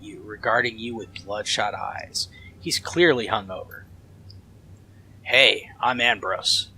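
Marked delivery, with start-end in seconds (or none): 5.2-6.7 cheerful shout. Acted. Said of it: "he shouts cheerfully in English".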